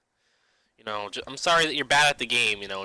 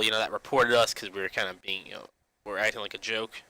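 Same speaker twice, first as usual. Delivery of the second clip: ordinary talk, nothing marked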